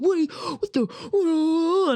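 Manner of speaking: high, shocked mock outrage; outraged friends. His friends reacting to the punch with high shocked mock outrage. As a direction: squeal it like stunned indignant guys.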